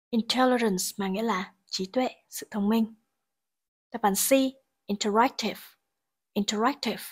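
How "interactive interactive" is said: interactive with the third syllable stressed. Shown as a demonstration. Teacher showing word stress for students, third-syllable stress on interactive. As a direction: say "interactive" with the beat on RAC. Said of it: "trọng âm rơi vào âm tiết thứ ba".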